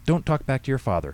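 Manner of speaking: put-on old lady's sharp reprimand; snapped. A narrator's reading. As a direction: snap it, mildly stern. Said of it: "Henrietta snapped at Katie".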